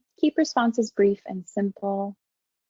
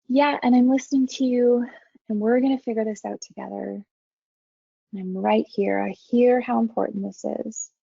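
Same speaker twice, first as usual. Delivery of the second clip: calming down. Shown as a demonstration. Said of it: "my tone and my pitch and my pace slowing down".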